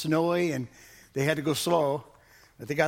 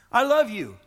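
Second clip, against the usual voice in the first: high and loud, LOVE falling; proclaimed; 7 semitones higher, 6 dB louder than usual. Acted. Pastor voicing God's love loudly to the congregation. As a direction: ring it out. Louder repeat.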